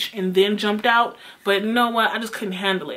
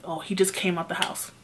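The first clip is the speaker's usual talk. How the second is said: soft, hushed aside in a lower voice; quietly imitating a whispered tip-off; retold whisper; 3 semitones lower, 7 dB quieter than usual. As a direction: pass it on quietly, as if secretly. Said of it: "like, whispering to me".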